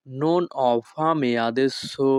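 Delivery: each Italian word spoken slowly and clearly; teacher modelling Italian for learners, very slow; slow demo. Shown as a demonstration. Bengali teacher models Italian phrase for students, slow and careful. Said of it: "Italian ভাষা".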